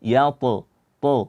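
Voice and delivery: "yat-" with a light echoing bounce on the final consonant; measured bounce, "yat-, to"; correct qalqalah. Shown as a demonstration. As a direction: let the end of "yat-" rebound just enough. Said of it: "cukup dibaca".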